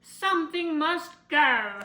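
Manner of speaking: urgent exclaim. A narrator's reading. Willoughby deciding, alarmed.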